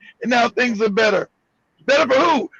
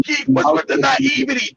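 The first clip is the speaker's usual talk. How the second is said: imitating a questioner; 3 semitones higher than usual. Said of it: "everybody asks me".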